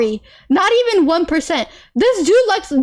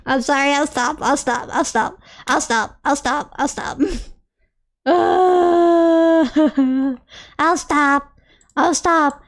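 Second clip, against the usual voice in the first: trying to stop; 3 semitones lower, slower than usual. Real, not acted. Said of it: "I can't calm down".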